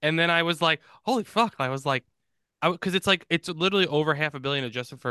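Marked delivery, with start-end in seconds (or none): 1.1-1.6 retold astonishment. Retells shock at box office figures.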